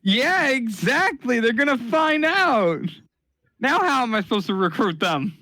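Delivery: playing a creepy cult leader; character voice. Player answers in character.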